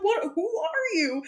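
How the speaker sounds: high, laughing and bewildered; laughing confusion. Retold or imitated. Player confronting a stranger, laughing. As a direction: ask it through a laugh. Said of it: "I'm like".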